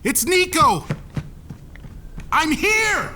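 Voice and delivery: high, ringing calls into the house; calling out. Acted. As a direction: call out so someone hears. Calling through empty house.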